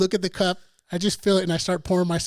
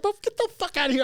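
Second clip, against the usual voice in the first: mock dismissive; 11 semitones higher, faster than usual. Brushing off a guy, retold.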